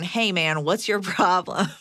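lightly confrontational, slowing on the challenge; half-joking challenge with a laugh; mock accusatory. Shown as a demonstration. Advice host shows how not to confront him, mock accusatory. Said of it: "make sure it's not accusatory".

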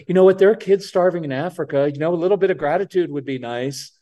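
preachy lecture. Retold or imitated. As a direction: lay the guilt on like a lecturing dad. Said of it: "We lecture".

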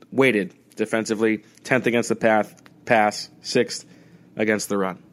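lisping from a lozenge. Real, not acted. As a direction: talk with a lozenge in the mouth, lisping. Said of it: "Sorry for the lisp".

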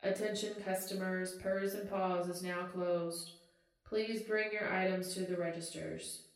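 clerk reading closing time over the speaker; customer service voice. Acted. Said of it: "the overhead speaker dings again".

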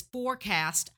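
forecast said with clear weight on the word; stress on forecast. Real, not acted. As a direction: lean into forecast so it stands out. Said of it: "I emphasize the word forecast".

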